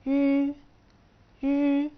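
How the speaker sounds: يو said high, loud and clear, twice; teacher models يو; model syllable. Shown as a demonstration. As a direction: sound out يو slowly for students. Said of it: "فهي هتتنطق".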